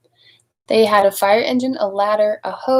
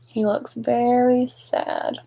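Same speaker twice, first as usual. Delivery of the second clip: pitying aside; 3 semitones higher, slower than usual. Real, not acted. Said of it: "reader's pitying aside".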